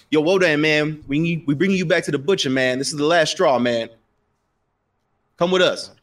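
a lightly voiced street thug, pushy and loud; street goon. Goon telling Wodan to come to the butcher, loud and pushy. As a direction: lean on him like a hired heavy.

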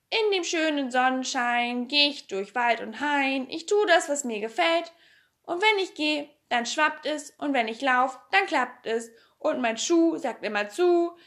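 bouncy chanted nonsense rhyme; rhythmic verse recitation. A narrator's reading. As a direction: lilt through it, stressing the beat. Recites Pippi's own song.

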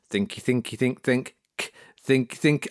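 quick little repeated loading sounds; soft mechanical thinky-think chant; computer thinking noise. Retold or imitated. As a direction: imitate an app busily searching. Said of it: "An Apple Podcast goes".

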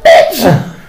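loud, high, slow outraged yell; hammed-up furious retort; mock outrage. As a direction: bellow it in disbelief. Outraged retort to plumber mistake.

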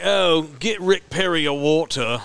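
put-on slow English bartender accent; mock English dialect. English bartender ridiculing the Texan customer, slow British accent. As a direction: imitate a drawn-out British barman. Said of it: "that dialect".

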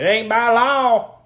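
imitating a loud customer who won't wear a mask; loud defiant retort. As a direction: bark it like a stubborn man in a shoe store. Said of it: "he was very loud".

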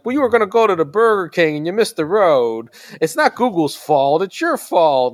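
lightly voiced smug child; know-it-all kid. Dad voicing his nine-year-old blaming him for the wrong turn, smug. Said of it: "my nine-year-old starts piping in".

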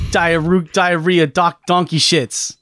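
lightly imitated ranting game reviewer; AVGN. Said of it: "Who could forget the classics".

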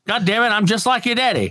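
lightly voiced Baby Billy insisting; Baby Billy quote. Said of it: "Baby Billy".

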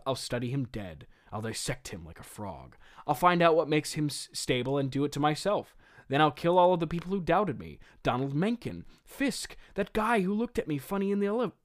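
hammy stage villain working himself up; villain monologue. Acted. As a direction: build from muted suffering to excited megalomania. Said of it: "I will deliver that monologue for you now".

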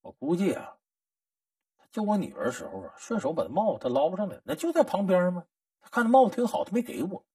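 muttered, grudging suspicion; mild mock sulky muttering; petty suspicion. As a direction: mutter it like a petty-minded woman. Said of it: "这小心眼儿妇女想到啥了".

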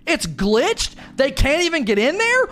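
high, mock-furious string of questions; spitting nails. Story team ranting about the broken activity, high mock fury. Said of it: "You would be spitting nails".

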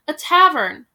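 loud jeering answer; mocking shout. Heckler answering Hansel, loud jeer. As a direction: shout it back for laughs. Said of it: "someone shouted".

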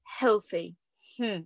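dry, doubting echo with a falling end; understated skeptical musing; sarcastic. Acted. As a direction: let one word drip with mild irony. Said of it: "I'm being sarcastic".

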